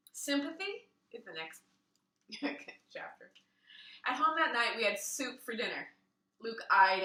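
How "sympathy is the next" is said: ordinary delivery, nothing marked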